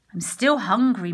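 a hint of a cow's moo; lightly voiced hungry cow. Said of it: "mooed the cow".

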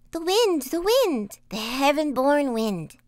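put-on high, loud child voices; children answering. A narrator's reading. Children answer the voice from inside the house, high childlike call. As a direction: chant it high like two children. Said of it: "The children answered".

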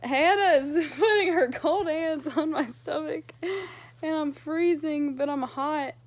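breathless and panicky; gasping through an anxiety attack; hyperventilating. Real, not acted. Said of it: "I'm having an anxiety attack right now".

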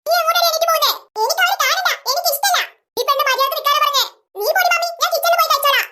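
lightly voiced spoilt daughter talking back; pouting kid voice; sulky little girl.

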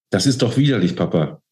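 high-pitched, appalled protest; screaming reproach. A narrator's reading. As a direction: accuse your father in distress. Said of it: "schrie sie ihn an".

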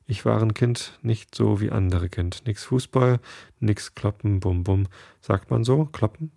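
a hint of an Italian waiter, musing; funny Italian German. Bruno recalls his childhood to the girl, light Italian accent. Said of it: "in seinem lustigen Deutsch".

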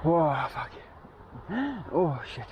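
tripping and falling. Real, not acted. In pain after falling.

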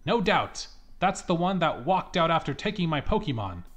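mildly voiced granny pointing at the thief; lightly voiced accusing old lady. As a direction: point the finger, lightly played.

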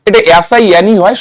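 এসআইএনই spelled slowly, letter by letter; slow spelling for dictation. Shown as a demonstration. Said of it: "spell, উচ্চারণটা".

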